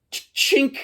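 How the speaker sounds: high metallic "chink" noise; imitated chink. Fan acting out the chainsaw catch, imitated clink. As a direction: voice the clink with a little stutter. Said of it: "it goes just like".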